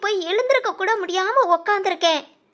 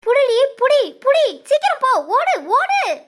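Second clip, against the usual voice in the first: loud, higher urgent orders; urgent shout; 3 semitones higher, 3 dB louder than usual. Acted. Sivakami orders Valli to catch the intruder, loud urgent shout. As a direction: push her to grab him now.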